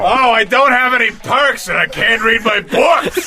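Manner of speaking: high, slow, whining shout; whiny mock yell. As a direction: wail like a helpless noob.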